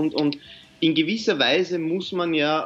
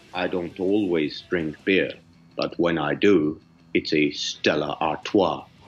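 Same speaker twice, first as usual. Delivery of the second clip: very low, deep radio announcer voice; 11 semitones lower than usual. Asked by the other speaker to say it again, in a radio voice. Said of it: "in der Radiostimme?".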